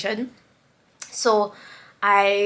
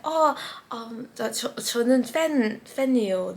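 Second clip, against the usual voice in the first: nervous stammer; 5 dB quieter than usual. Retold or imitated. Retold nervous words to idol.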